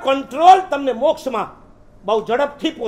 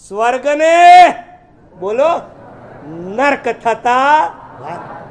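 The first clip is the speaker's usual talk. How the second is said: સ્વર્ગને drawn out slow and much louder, then નર્ક થતા વાર slow; dramatic slow emphasis; 6 dB louder, slower than usual. Acted. Preacher to congregation, closing the poem: slow loud emphasis. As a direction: build to the verse's punchline, slowly and loudly.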